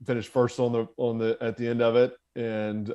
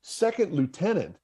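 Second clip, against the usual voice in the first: incredulous instructor; 7 semitones higher than usual. Retold or imitated. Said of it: "He's like".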